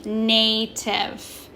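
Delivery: NATIVE as NAY-tiv, in two parts; long A. Shown as a demonstration. Teacher shows students the long A in native, carefully sounded out. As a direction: sound out "native" with A saying its name. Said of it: "say its name".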